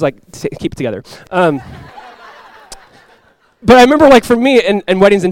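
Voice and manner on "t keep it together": hushed scold. Retold or imitated. Wife to tearful husband, hushed scold. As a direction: lower and softer, a hushed telling-off.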